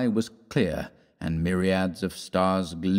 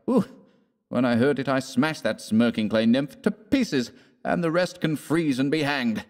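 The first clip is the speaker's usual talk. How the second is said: higher, heated West; 5 semitones higher than usual. Acted. West telling emotionally.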